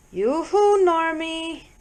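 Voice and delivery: high, loud falsetto yoo-hoo; falsetto call. A narrator's reading.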